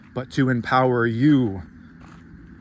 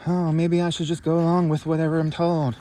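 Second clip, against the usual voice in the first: mock docile sheep; 3 semitones higher than usual. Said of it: "make me think".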